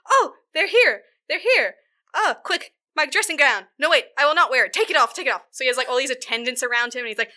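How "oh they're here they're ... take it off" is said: high, loud, frantic fussing; a fop in a tizzy, shouting orders; hammed-up panicked old dandy; flustered panic. Flustered dandy panics over gown.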